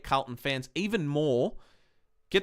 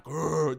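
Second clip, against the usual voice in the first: growl. Retold or imitated. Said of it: "my voice went from, like".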